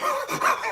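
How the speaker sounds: imitated blubbering sobs; mock crying. Movie fan shows how he reacts to Gandalf's speech, mock sobbing. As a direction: act out crying at a film. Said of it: "I cry a lot in that movie".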